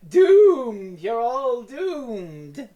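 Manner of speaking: slow, drawn-out doom warning; slow ominous raspy drawl. Retold or imitated. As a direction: intone it like a dying villain. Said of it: "He's supposed to say".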